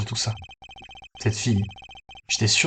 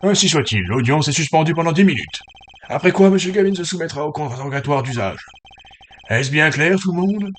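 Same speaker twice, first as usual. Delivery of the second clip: a hint of a judge issuing a ruling; lightly voiced judge; 5 semitones higher, 4 dB louder than usual. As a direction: make a mild, official court announcement.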